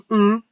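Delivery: oval-lipped hum. Shown as a demonstration. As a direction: round the lips and hum. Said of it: "make your lips more into an oval".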